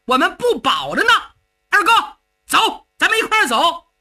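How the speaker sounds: indignant, rattling off grievances; agitated protest. Acted. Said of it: "程咬金一看就急了".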